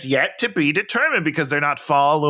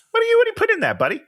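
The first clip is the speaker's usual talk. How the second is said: high-pitched mock chat with a star; mock coaxing; 11 semitones higher, much faster than usual. Someone fussing over Jared about his hair, high mock voice. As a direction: pitch it well up, playfully pestering. Acts out someone addressing the actor.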